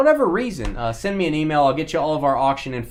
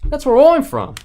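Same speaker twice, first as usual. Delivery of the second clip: loud mock Aussie; 11 semitones higher, 7 dB louder than usual. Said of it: "He's an Aussie".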